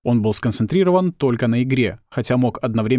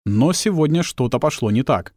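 plain reading voice

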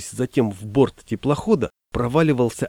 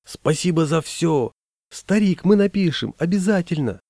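high-pitched farewell calls; acted distant shouting, voice raised high; calling out thanks; 6 semitones higher than usual. A narrator's reading. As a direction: call it after someone left behind. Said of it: "вдруг стали кричать".

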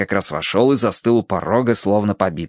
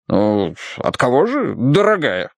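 slow, exasperated colonel; impatient. A narrator's reading. Colonel waits on his wife reading, impatient. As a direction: press her for it, patience gone. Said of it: "не выдержал полковник".

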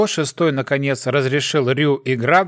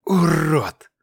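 hissed insult. A narrator's reading. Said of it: "прошипел парень".

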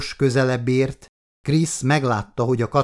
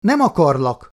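shouted; 5 semitones higher, 5 dB louder than usual. A narrator's reading. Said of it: "kiáltotta".

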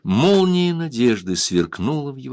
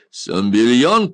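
loud, slow, higher call across the fort; 5 semitones higher, 6 dB louder, slower than usual. A narrator's reading. Janos calls the Dayak over, loud and drawn out. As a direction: summon him from a distance. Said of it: "крикнул Янос".

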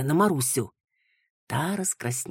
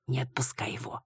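whisper; 8 dB quieter than usual. Acted. Old woman's confiding advice.

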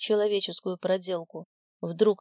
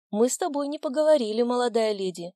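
stern scolding; 4 semitones higher, 3 dB louder than usual. A narrator's reading. Mother scolds daughter.

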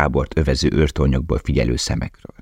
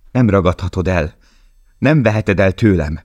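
raised, desperate outcry; crying out; 4 semitones higher, 3 dB louder than usual. Acted. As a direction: shout it at death itself. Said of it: "kiáltott Lale". (kétségbeesett kiáltás)

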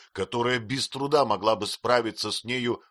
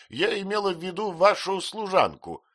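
higher, louder, testy; impatient aunt; 12 semitones higher, 5 dB louder than usual. A narrator's reading. Aunt explains to the mother, testily. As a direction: say it tersely.

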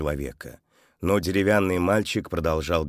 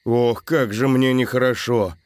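mild groaning complaint, a bit louder; со стоном; 4 semitones higher, 4 dB louder than usual. A narrator's reading. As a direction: moan it out. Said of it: "простонал Антон".

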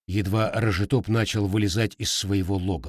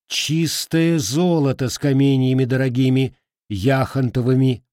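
indignant; 2 semitones higher, 4 dB louder than usual. Acted. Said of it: "возмутилась в ответ Василиса".

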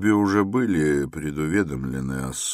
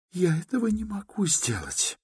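offended outcry; 4 dB quieter than usual. A narrator's reading. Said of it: "вскричала обиженная девушка".

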